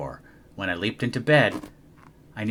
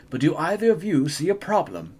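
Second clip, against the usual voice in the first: teacher voice; 8 semitones higher, 4 dB louder than usual. Acted. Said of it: "said Mister Z".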